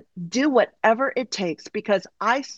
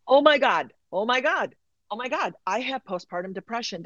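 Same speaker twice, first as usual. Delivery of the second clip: realizing shock; 4 semitones higher than usual. Retold or imitated. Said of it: "and I went".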